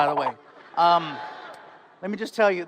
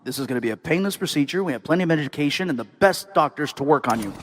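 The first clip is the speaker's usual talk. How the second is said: lower, smooth, lightly voiced British surgeon; calm British doctor; 5 semitones lower, faster than usual. Heart surgeon reassuring a patient, mild British accent. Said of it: "Which doctor do you want?".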